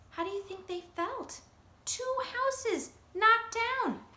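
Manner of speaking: dismayed asking. Real, not acted. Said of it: "narrator asks children".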